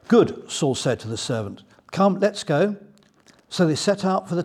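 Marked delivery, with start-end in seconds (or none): 0.1-0.5 much higher and louder eager exclamation; a bright keen yes; mock eager Saul; eager good. Saul speaks to servant. 1.9-2.7 higher and louder, urging a friend on; let's get moving; lightly voiced eager Saul; eager call. Saul urges servant.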